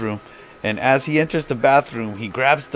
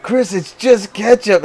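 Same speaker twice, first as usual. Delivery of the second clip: laughing; 8 semitones higher, 4 dB louder than usual. Retold or imitated. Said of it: "start busting up laughing".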